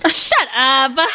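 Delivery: laughing it off, high giggle; real laughter while telling a friend off. Real, not acted. Teasing a friend who joked about age, laughing.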